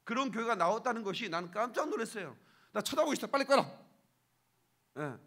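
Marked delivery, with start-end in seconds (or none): 2.7-3.8 loud, high, irritated command; raised voice, retold disgust; disgusted order. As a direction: order it switched off, refusing to look. Acted disgusted order to switch off.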